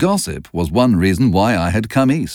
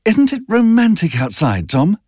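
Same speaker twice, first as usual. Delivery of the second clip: Daisy voice; 11 semitones higher than usual. A narrator's reading.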